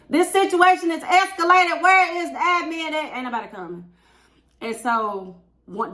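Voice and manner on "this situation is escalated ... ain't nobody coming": high laughing outcry; laughing disbelief. Real, not acted. Teacher venting about missing admin, high laughing outcry. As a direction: laugh it out, fed up and amazed. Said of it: "laughing disbelief".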